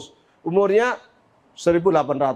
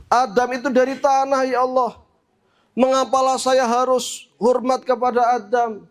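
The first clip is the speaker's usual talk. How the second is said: raised, insistent pleading to God; lightly voiced indignant Iblis, higher than narration; Iblis protesting; 4 semitones higher than usual. Iblis objects to God about honouring Adam, protesting. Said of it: "Kata siapa? Iblis".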